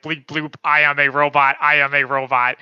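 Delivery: robot voice. Retold or imitated. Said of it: "Taskmaster is a robot and is like".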